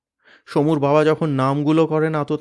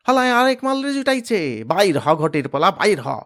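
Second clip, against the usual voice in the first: high, rough taunting yell; mocking thug voice; 6 semitones higher, 3 dB louder than usual. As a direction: sneer and shout them out of the house. Thug yelling from outside.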